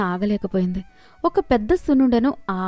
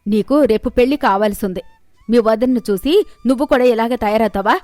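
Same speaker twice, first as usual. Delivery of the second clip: indignant mother-in-law's telling-off, slightly raised; angry scolding; 2 semitones higher, 4 dB louder than usual. Acted. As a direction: berate daughter, then complain to son. Mother-in-law berates the family.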